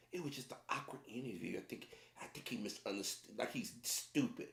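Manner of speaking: soft, small imitation of interviewer; mock her tiny sweet voice; little mouse voice. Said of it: "she put that little mouse voice up".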